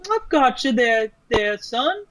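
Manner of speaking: hammed-up Southern drawl of a mother soothing her son; terrible Southern accent. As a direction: mom Brenda reassuring her injured son, in a bad Southern accent. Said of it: "that was my, a terrible accent".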